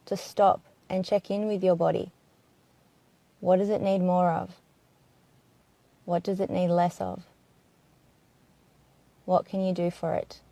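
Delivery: calm, unhurried body-scan voice with long pauses; gentle meditation guide, leaving space after each phrase; guided meditation. Acted. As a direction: ease listeners into their bodies, phrase by phrase. Guides closing questions to body.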